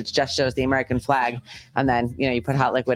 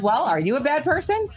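retold pointed question; 11 semitones higher than usual. Her own retold question.

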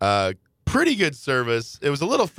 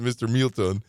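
Spanish pronunciation. Retold or imitated. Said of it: "they pronounced it".

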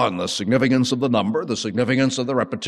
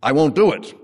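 high, loud pleading "Oh, Lord"; protesting Peter; 5 semitones higher, 5 dB louder than usual. Acted. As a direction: push back, half shocked, half pleading. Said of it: "You know".

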